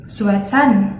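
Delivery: 'sweatan' ending in N instead of R; Thai-style 'sweatan', final N; Thai accent. Shown as a demonstration. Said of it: "in Thai accent".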